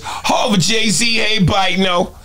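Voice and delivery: high impression ending in his laugh; impression of a rapper. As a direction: lift it up into his register, then laugh. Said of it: "you know, that register".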